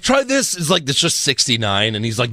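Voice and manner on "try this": high sing-song mock coaching; mock Ziggler. Ziggler coaxing Lana in a sing-song mock voice. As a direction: tease it out like a smarmy trainer.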